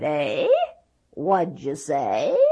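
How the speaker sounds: a hint of a hard-of-hearing grandfather; lightly voiced old man cupping his ear; deaf old grandpa. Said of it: "who was hard of hearing".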